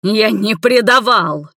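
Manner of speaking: slow, loud yell. A narrator's reading. Igor roars his denial at Nina. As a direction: roar the denial. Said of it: "заорал он".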